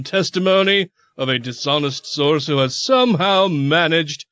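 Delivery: lightly hammed Southern lawyer; mock Southern accent. Host quoting the lawyers' indignant statement, mock Southern accent. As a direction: declaim it slowly with a Southern accent.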